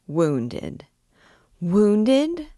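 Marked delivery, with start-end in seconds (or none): 1.6-2.5 high, rising cry of dismay; alarmed, overcome. A narrator's reading. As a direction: echo WOUNDED as a shocked question. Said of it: "The poor child was quite overcome".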